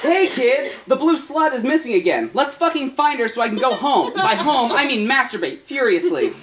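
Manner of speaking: a light put-on kids' show host; Steve voice. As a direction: sell it like a weary children's host. Steve addressing kids in reading.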